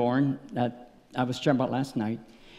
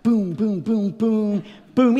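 punchy, rhythmic run of booms; imitated smacking sounds; 5 semitones higher, 4 dB louder, much slower than usual. Preacher acting out repeated smacks of a stick, punchy imitated booms. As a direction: mime the blows with your voice.

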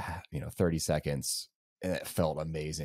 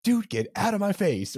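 sharp, much higher, louder snap; retold yell; 4 dB louder than usual. Nauseous runner yelling at friend offering food, high loud snap. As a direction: shove him off with your voice. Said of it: "I yell at him".

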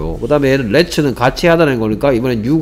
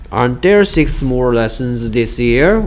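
teacher spelling out each word for the class; slow, deliberate example sentence; slow model reading; much slower than usual. Shown as a demonstration. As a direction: read the question out slowly, word by word. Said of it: "there are 했으니까 aren't there 해야 되겠다".

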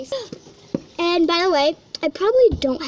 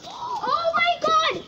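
excited; 13 semitones higher, 4 dB quieter, slower than usual. Real, not acted. Girl reacts to amazing view.

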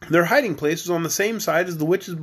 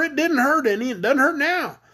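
high-pitched small creature; begging grasshopper; 8 semitones higher than usual. Acted. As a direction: reassure her in a little high voice. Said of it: "begged the Grasshopper".

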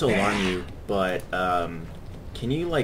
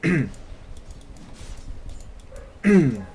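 hushed, urgent come on under breath; whispered self pep talk. Real, not acted. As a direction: psych yourself up in a whisper. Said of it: "self-pep talk under breath".

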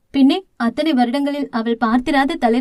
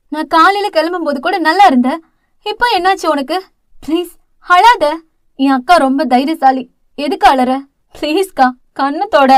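louder, pleading through sobs; sobbing plea; 2 semitones higher, 4 dB louder than usual. Acted. Younger sister begs her crying sister to stop, sobbing. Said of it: "என்று தேம்பிக் கொண்டே".

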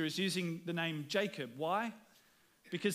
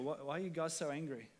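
laughing, soft, teasing the ants; amused teasing; 6 dB quieter than usual. Retold or imitated. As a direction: chuckle down at the anthill. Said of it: "we would look down on an anthill".

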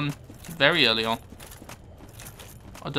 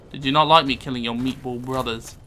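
mocking. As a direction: fake apology. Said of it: "He says, mocking the demon".

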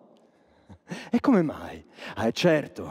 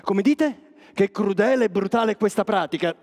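mock indignant echo; 5 semitones higher, 3 dB louder than usual. Echoing the audience's outrage.

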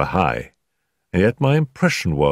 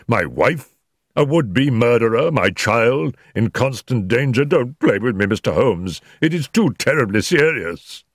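pleading, raised and urgent; desperate plea; 4 semitones higher than usual. Acted. Ferguson begging Holmes for the truth, desperate. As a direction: beg him not to toy with you.

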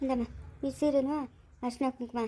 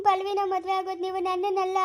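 crying. Acted. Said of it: "ನಿಜವಾಗ್ಲೂನೇ ಅಳ್ತಾವಳೆ".

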